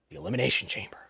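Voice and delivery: whispered secret offer. Pretend. Host teasing the Saudi deal, whispered. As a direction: breathe it like a sly aside.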